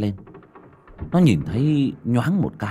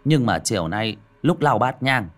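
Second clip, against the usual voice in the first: tired dismissal; 3 semitones higher, 4 dB louder than usual. Acted. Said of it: "Xiển mệt mỏi nằm xuống mà đáp".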